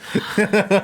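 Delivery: short high giggle. Real, not acted. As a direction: giggle at the cheesy line. Laugh after pickup line.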